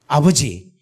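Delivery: slow, proclaiming prayer declaration; fervent prayer. Retold or imitated. Preacher retelling his prayer over Sydney, slow fervent proclamation. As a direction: call on God to take the city, drawn out. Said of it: "기도를 했어요".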